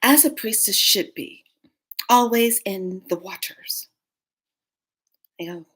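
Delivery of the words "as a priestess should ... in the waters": a hint of an ancient dragon. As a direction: speak like an ancient creature, unhurried. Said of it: "She goes".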